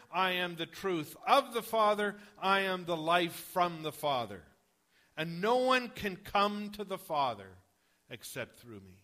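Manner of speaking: loud, firm declaration of each "I am"; Jesus answering Thomas emphatically; emphatic. Retold or imitated. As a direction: proclaim it with full conviction. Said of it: "his answer is emphatic".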